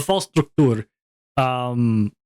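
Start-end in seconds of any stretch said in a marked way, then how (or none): 0.0-0.9 "Struktur" with a put-on foreign accent, ending like "toor"; weird accent. Shown as a demonstration. Streamer naming the game again, weird accent on "Struktur". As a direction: keep the weird long oo at the end of "Struktur". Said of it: "I'll say it with that weird accent every time".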